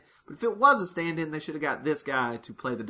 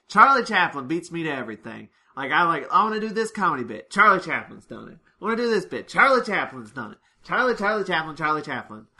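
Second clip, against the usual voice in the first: a touch louder, whiny annoying guy; lightly voiced complainer, louder; imitating a pestering comic, a bit louder; annoying comedian; 5 dB louder than usual. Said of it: "really annoying guy who's like".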